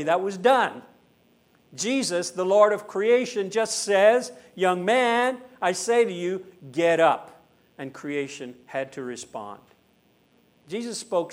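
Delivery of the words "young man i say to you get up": commanding. Acted. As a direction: summon the young man with authority. Jesus commanding the dead man.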